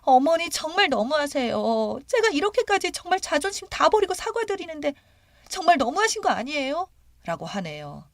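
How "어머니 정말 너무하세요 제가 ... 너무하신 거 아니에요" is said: high-pitched, pleading protest; hurt daughter-in-law's high lament; tearful wailing. A narrator's reading. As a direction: plead as if close to tears. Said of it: "작은 며느리가 울며불며".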